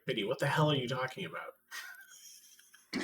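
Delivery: put-on slow, heavy New York accent. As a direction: drag it out like a thick New Yorker. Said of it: "me being, having to be like".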